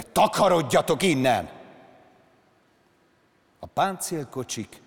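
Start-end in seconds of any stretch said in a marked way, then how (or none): 0.0-1.5 shouted out, higher and louder; furious shout. Acted. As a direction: yell them off the yard. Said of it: "üvöltötte". (dühös kiáltás, hangosan)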